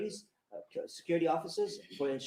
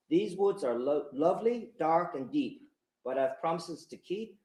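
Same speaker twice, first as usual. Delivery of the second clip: slow, measured reading of a Frost poem; poem recitation; 4 dB louder, slower than usual. Acted. Magistrate closing his court speech with Frost, slow poem recitation. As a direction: let each line of verse land, slowly. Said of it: "I'll end by quoting American poet Robert Frost".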